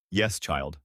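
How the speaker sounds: put-on soft old woman. A narrator's reading. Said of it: "her voice as soft as wind".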